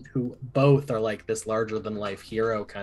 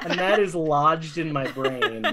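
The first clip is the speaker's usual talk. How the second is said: laughing while talking; 5 semitones higher, 4 dB louder than usual. Real, not acted. Still amused after the imitation.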